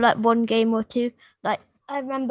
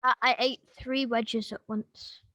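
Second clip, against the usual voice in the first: talking through a mouthful; eating while speaking; mouth full; 6 dB quieter than usual. Real, not acted. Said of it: "Are you still eating".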